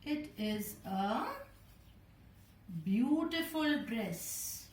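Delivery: slow, admiring exclamation, drawn out; excited wow. Shown as a demonstration. Teacher showing pupils an excited exclamation, awed and slow. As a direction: gasp over the dress, then savour beautiful. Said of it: "wow is expressing our excitement".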